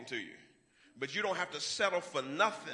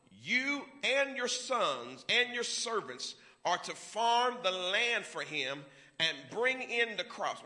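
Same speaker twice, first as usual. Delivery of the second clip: slow, measured reading of the verse; first slow reading of the verse; slow scripture reading; slower than usual. Shown as a demonstration. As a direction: read each word slowly and deliberately. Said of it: "I'm gonna read it again".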